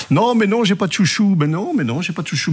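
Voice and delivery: un mais non aigu et espiègle, comme pris en faute; fausse dénégation. Pretend. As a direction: nier en riant à moitié, la voix qui monte. Prof nie avoir des chouchous. (le prof accusé d'avoir des chouchous proteste, faussement outré)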